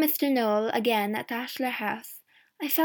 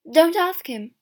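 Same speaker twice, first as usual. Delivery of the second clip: quick, louder and higher interjection; urgent, raised-pitch objection; 6 semitones higher, 9 dB louder than usual. A narrator's reading. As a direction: cut in sharply to stop the questioning. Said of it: "she said quickly".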